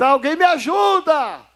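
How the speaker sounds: put-on high pleading cry, "ajuda" stretched long. Retelling how a man at the service cried out: imitating a man shouting for help. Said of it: "Ele começou a gritar".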